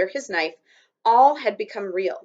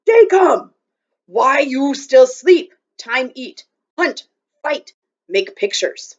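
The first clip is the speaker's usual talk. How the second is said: loud calling shout across a canyon; 5 semitones higher, 10 dB louder, slower than usual. A narrator's reading. Little Bear shouting to wake Omri, loud. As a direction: Indian warrior calling loudly to wake the boy. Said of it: "the Indian shouted".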